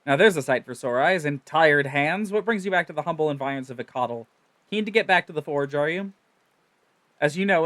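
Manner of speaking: lightly voiced proud inventor; cheery engineer. Engineer welcoming Miku back to the forge, lightly voiced. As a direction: boast like a tinkerer in love with his ship. Engineer greets returning adventurer.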